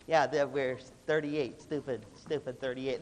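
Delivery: lightly voiced freshman copying seniors' attitude; slow, lightly mocking parrot of the seniors; copycat freshmen. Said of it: "They're copying the attitude".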